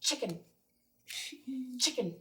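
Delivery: "Chicken" with a short, sharp "ch"; teacher demo of a crisp "ch" in "Chicken"; ch sound. Shown as a demonstration. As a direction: snap the "ch" of "Chicken". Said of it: "This one".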